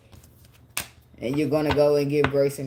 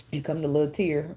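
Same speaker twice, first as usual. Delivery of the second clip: real tears starting; 2 semitones lower than usual. Real, not acted. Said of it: "It started".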